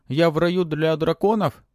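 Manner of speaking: high squeaky little dragon voice; голосок дракончика. Acted. Dragon pet voiced in story. (писклявый голосок дракончика)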